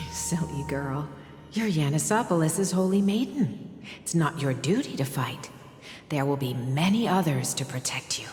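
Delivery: gentle hushed reassurance. Acted. Mother soothing child.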